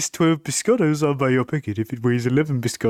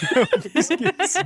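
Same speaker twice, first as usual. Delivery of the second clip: high silly voice. Pretend. High far laughing voice.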